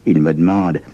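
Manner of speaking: plain reading voice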